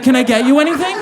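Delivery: lightly voiced worried attendant asking gently; mock sweet attendant check-in; concerned flight attendant. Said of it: "she's like".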